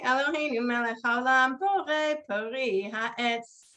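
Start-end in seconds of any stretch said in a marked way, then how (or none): 1.6-3.6 slow blessing. Shown as a demonstration. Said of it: "let's say".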